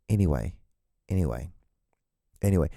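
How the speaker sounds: "anyway" drilled low, with pauses between; corrective ANYWAY. Shown as a demonstration. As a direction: repeat "anyway" with no s, low and final. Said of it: "It's anyway, not anyways".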